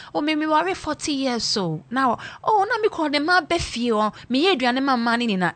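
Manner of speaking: high, pleading wife voice; mock long-suffering wife. Wife in videos boasting of enduring her man, high mock plea. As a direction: play the devoted wife, pitched high. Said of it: "the woman says".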